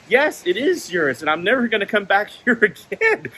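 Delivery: retold argument, firm and emphatic; indignant retort. Customer answering the worker's denial, indignant retort.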